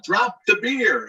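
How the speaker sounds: slow, high-pitched mock holler; drawn-out, high retold yell; imitated yell. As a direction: call it out slowly like a man in a crowd. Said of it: "hear the guy yell".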